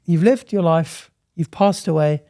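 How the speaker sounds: a hint of a gentle, comforting Grim Reaper; lightly voiced kind Reaper. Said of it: "And Grim Reaper goes".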